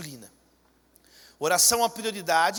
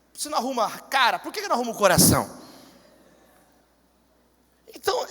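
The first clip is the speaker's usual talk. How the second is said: ordinary talk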